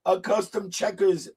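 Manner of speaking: talking through laughter; laughing at a friend's request. Real, not acted. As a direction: laugh while you tell it.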